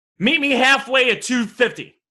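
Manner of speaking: usual speaking voice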